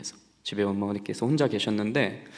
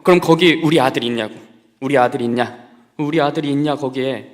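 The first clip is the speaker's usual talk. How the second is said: loud, pleading cries of a panicked mother; frantic mother; 8 dB louder than usual. Retold or imitated. Mother on the phone shouting in panic.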